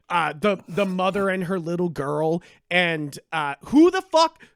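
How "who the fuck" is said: loud, high exasperated cry; exasperated outburst. Real, not acted. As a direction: blurt it out in disbelief. Angry rant about confusing character.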